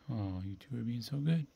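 ordinary talk

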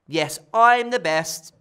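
loud, slow and boastful; cheering. Acted. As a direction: cheer it out, drawn out. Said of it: "Ella cheered".

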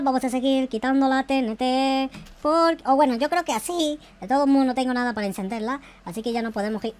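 normal talking voice

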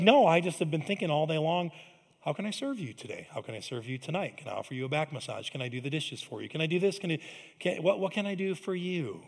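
soft, gentle list of offers; quietly eager to please; husband listing ways to help his wife; sincere offers. Pretend.

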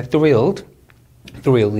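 'thrilled' with a careful TH before the R; careful TH sound. Shown as a demonstration. Teacher drilling TH, careful model pronunciation. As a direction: articulate the opening of 'thrilled' clearly. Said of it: "발음 유의해 주시고요".

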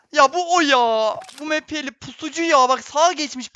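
real agitated callout; agitated alarm. Real, not acted. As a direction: call out the enemy in alarm. Recognises enemy, agitated.

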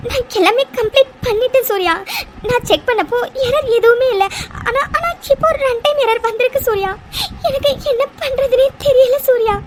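teary, breaking voice; crying. Acted. Mitra tells Surya she checked everything, crying. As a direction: plead through tears. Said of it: "அழாதடி".

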